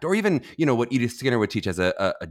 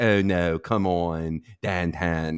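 exaggerated Pittsburgh sample; Pittsburgh accent; 2 semitones lower, much slower than usual. Shown as a demonstration. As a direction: demonstrate broad Pittsburgh vowels. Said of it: "if you were from Pittsburgh".

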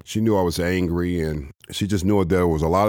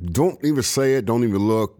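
sharp, higher warning; stern retold warning; 5 semitones higher than usual. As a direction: cut him off before he speaks. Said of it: "and she said".

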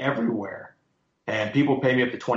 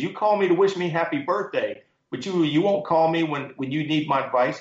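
higher, emphatic mock scolding; retold loving telling-off; 5 semitones higher than usual. Mentor scolding a younger man for not calling for advice, mildly retold yell. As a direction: imitate a mentor's mild yell, pitched up. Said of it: "He actually yelled at me".

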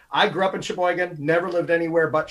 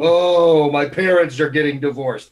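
melodramatic; 6 dB louder, slower than usual. Retold or imitated. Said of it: "the very melodramatic".

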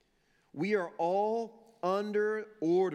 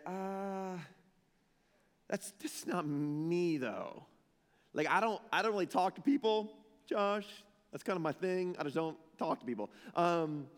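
reluctant introvert. Acted. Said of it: "all of my, my introverts in the room".

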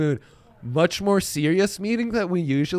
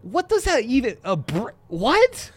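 put-on Cockney accent; 8 semitones higher than usual. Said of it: "how do I say that in a Cockney accent".

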